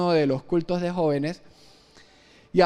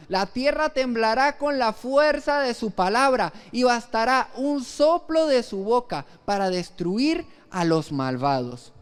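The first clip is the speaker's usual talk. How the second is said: scripture reading. Acted. Reads Isaiah verse aloud slowly.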